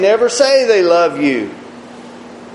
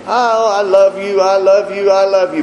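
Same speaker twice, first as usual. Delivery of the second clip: child's mock pleading; 5 semitones higher, 3 dB louder than usual. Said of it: "they may tell you".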